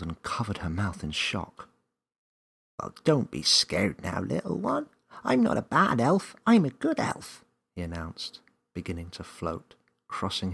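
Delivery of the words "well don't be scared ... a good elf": put-on high, louder elf reassuring the child; chirpy elf calming a scared girl. A narrator's reading.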